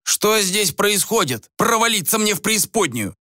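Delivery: acted astonished anger; outraged demand. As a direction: burst in demanding an explanation. Newcomer bursts in on the fight.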